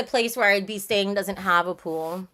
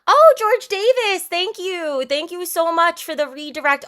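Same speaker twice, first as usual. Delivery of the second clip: excited thanks; 6 semitones higher, 5 dB louder than usual. Real, not acted. Thanking a chatter for a redirect.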